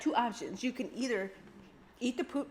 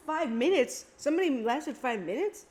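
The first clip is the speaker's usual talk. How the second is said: incredulous; 5 semitones higher, 4 dB louder than usual. Real, not acted. Disbelief at challenge record.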